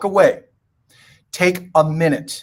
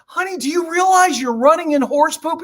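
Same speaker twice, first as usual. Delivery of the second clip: mother's voice; 10 semitones higher than usual. Retold or imitated. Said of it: "the mom puts her head and goes".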